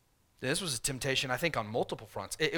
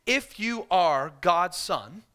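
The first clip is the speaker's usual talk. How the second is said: slow, louder, mocking challenge; taunting devil; 2 semitones higher, 5 dB louder, slower than usual. Preacher voicing Satan taunting Jesus, slow and mocking. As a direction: draw it out as a sneering dare. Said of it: "the voice from hell says".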